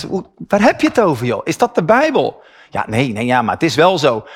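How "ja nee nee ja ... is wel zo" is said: lower, quick shrugging believer imitation; mock churchgoer cliché. Preacher mimics churchgoers' empty answers with a lower mild mocking voice. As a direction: toss it off like a pious platitude.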